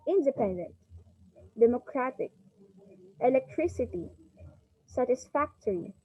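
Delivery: international, electronic, application, each peaking on the third syllable; word-list demo, NA in international, TRON in electronic; third-syllable stress. Shown as a demonstration. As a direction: hit CA in application, then let it fall. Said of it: "On third syllables".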